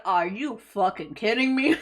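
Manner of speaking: incredulous quote dissolving into laughter; laughing impression. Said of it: "He's like".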